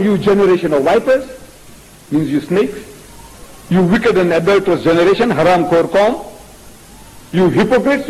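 measured, mildly scornful name-calling; quoted insults. Acted. Preacher quoting insults to the elders, mildly scornful. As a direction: list the insults with mock reproach, pitch climbing later. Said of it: "he was insulting toward the elders".

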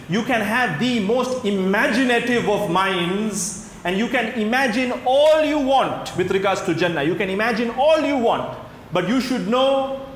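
high, emphatic sermon build; preacher swelling with wonder at paradise; impassioned preaching. Real, not acted. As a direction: press the point on the congregation fervently. Impassioned exhortation.

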